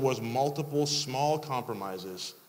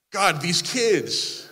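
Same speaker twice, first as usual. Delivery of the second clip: exasperated sigh; 4 semitones higher, 5 dB louder, much slower than usual. Pretend. Mock parent's complaint to God.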